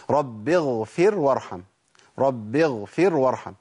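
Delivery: slow recitation with a clear flowing ghayn in "اغفر"; correct still ghayn. Shown as a demonstration. Teacher reciting the model for students, correct still ghayn. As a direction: let the vowelless ghayn of "اغفر" run, slowly. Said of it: "الغين هنا ساكنة".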